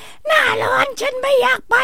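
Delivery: very high, drawn-out put-on voice; hammed-up, high-pitched reluctant whine; mock complaining traveller. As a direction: squeal it slowly on one high held pitch.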